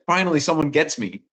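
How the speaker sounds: a hint of overjoyed drunk relief; relieved drunk guy. Drunk guy finally understood by someone, lightly mimicked relief. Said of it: "then the drunk guy was like".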